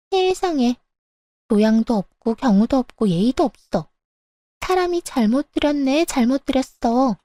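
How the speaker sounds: mistress clucking in mock dismay; scornful mistress. Mistress scolding the daughter-in-law, sniffy disdain.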